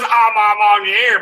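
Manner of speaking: slow, drawn-out "Amamaniere" in a Southern accent; "Amamaniere" said slowly in bad French. Shown as a demonstration. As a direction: stretch "Amamaniere" and let the South override the French. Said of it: "my accent just overrides the French shit".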